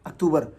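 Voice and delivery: अक्टूबर as ak-TOO-bar; Urdu pronunciation. Shown as a demonstration. Teacher quoting the common habit, अक्टूबर as ak-TOO-bar. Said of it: "तो हम कैसे पढ़ते हैं".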